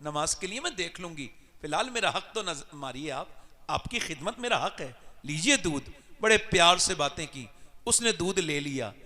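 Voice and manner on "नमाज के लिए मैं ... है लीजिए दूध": humble plea. Retold or imitated. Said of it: "कहा".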